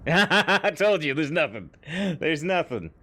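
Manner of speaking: loud, crowing I-told-you-so; laughing gloat. Real, not acted. Gloating after laughing at container.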